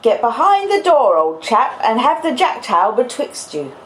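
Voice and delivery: put-on laboured character accent, urgent warning to a child; Joe. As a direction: put on a broad character accent, pitch swooping up. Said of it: "I can't possibly do the accent that long".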